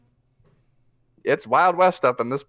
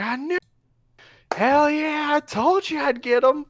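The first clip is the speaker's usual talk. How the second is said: much higher, loud triumphant crow; gleeful whoop; 3 dB louder than usual. Acted. Gunman gloating to the crowd, whooping with glee. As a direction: crow over a winning bet like a rowdy gunman. Shooter celebrating the kill.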